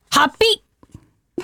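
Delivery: slow, drawn-out "ハッピー！" called out; big voice answer. Shown as a demonstration. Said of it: "答えを大きな声でお願いします".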